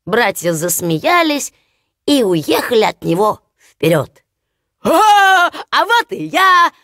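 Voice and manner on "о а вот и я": slow, much higher hailing call; loud call. Acted. Hans catching up to his brothers, loud call. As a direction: hail them from far behind. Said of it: "опять закричал Ханс Чурбан".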